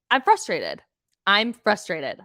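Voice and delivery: fed-up frustrated outburst; real frustration. Real, not acted. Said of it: "This is me just really angry".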